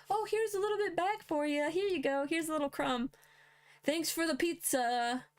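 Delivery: high, condescending mock voice doling out scraps; mocking government. Mocking the state handing back a little money, high and sarcastic. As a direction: sneer like a smug official handing out crumbs.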